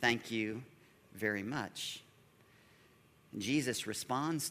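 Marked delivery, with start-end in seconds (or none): 0.0-2.0 mock selfish demand. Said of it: "the truth is".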